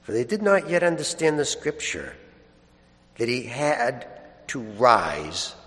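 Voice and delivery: measured scripture proclamation with long pauses; solemn Gospel reading. Acted. Priest proclaiming the Easter Gospel to the congregation, solemn and measured. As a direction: read it out phrase by phrase, leaving space.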